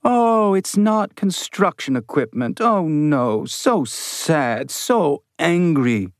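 high, singsong mimicry of his whining; mocking, go up high and lilt it; high mocking sing-song. A narrator's reading. Maintenance man mocking the science lead in a high sing-song. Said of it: "his voice was a high, mocking sing-song".

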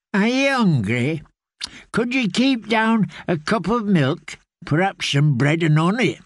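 a hint of a gentle old caretaker; kindly old man. Grey man offers food.

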